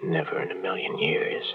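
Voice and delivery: hushed, breathy lover's whisper; a desperate whispered plea into the phone; secret whisper. Acted. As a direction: whisper so no one overhears.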